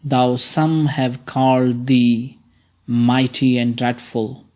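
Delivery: measured reading of the sonnet's opening; poem recitation. Shown as a demonstration. Teacher reads the first lines to students as verse. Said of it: "I will read, uh, the lines".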